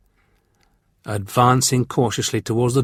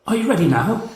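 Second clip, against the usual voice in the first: put-on higher girl voice, forced calm; hiding fear; 9 semitones higher than usual. A narrator's reading. Frightened girl giving in to the warrior, forced calm. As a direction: cover the fear. Victoria's voice.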